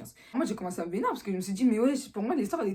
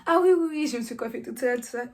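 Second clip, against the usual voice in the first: higher, louder flustered yes; nervous relief; 4 semitones higher, 4 dB louder than usual. Retold or imitated. Relieved girl answers the principal, high and loud. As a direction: gush out relieved agreement. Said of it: "J'étais en mode".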